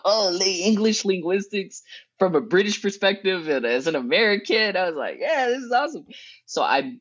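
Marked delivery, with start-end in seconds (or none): 0.0-4.8 mock nerdy delight, raised pitch; nerding out. American student thrilled by British linguistics, nerding out. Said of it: "nerding out". 5.2-6.1 high, giddy retold delight; nerding out. Student excited about studying abroad, nerding out. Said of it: "nerding out".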